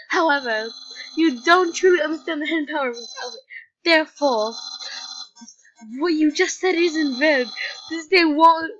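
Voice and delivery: loud, excited skeleton voice; boastful cartoon skeleton, full volume; Papyrus voice. Voices Papyrus reading dialogue.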